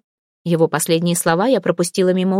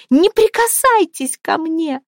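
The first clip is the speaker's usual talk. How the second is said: panicked scream; 9 semitones higher, slower than usual. Acted. Heroine pinned to the wall screams at the boss. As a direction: scream it to push him away. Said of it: "прокричала я".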